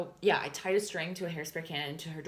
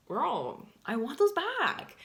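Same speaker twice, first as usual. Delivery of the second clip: high, loud, slow sassy demand; 8 semitones higher, 4 dB louder, much slower than usual. Real, not acted. Telling viewers she wants her lip kits back, sassy and loud. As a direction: lean into it with sass.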